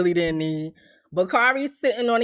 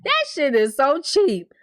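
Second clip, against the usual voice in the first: mocking scoff; 4 semitones higher, slower than usual. Shown as a demonstration. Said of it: "repeats the line, drawn out".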